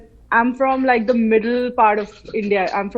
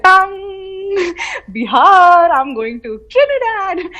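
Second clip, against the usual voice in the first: excited inner voice; 7 semitones higher than usual. Retold or imitated. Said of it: "brain was just like".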